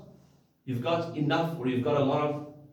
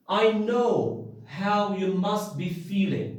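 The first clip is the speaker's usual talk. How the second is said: understanding; 3 semitones higher, slower than usual. Shown as a demonstration. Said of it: "means that I understand your feelings".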